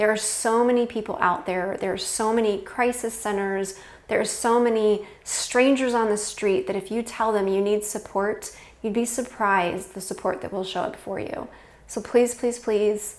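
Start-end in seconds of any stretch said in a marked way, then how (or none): 11.9-13.2 tearful, repeated pleading, near tears. Speaker urges anyone who needs help to ask for it, getting teary. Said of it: "I'm getting teary just saying it".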